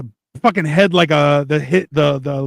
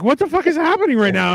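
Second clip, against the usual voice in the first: mock disbelief; 9 semitones higher than usual. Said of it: "I'm like".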